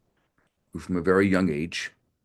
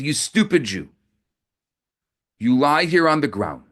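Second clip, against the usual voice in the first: higher, louder furious contempt; infuriated; 4 semitones higher, 3 dB louder than usual. Acted. Officer berating the rabbi on the ground, furious. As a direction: berate him in fury. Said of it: "the officer became infuriated".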